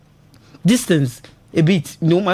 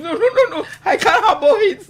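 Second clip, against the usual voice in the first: emphatic refusal; 11 semitones higher than usual. Real, not acted. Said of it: "I'm very emotional".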